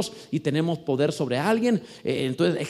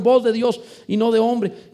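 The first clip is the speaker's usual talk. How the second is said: crowd shout; 5 semitones higher, 5 dB louder than usual. Retold or imitated. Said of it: "cuando le gritaron".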